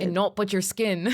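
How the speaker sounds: put-on a clumsy, laughing stab at Sam's English accent; lightly done English accent, giggling through; bad mock Sam accent. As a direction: throw on a playful, half-hearted English accent as Sam. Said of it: "That was a bad accent".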